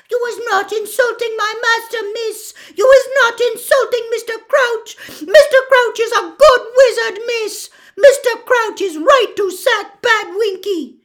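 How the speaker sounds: very high, loud elf screech. Acted. Winky covers her ears, defending her master, screeching. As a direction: screech it to drown the other out. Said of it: "and screeched".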